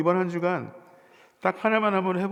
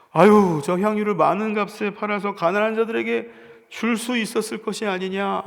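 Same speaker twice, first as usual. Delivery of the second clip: mock disciple; 4 semitones higher, 5 dB louder than usual. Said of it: "나름대로 자기 대안을 얘기하죠".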